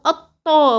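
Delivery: الطا with the ط spoiled by pressure; mistaken, punched doubling in الطا; over-pressed shadda. Shown as a demonstration. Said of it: "وتبوظي الطاء".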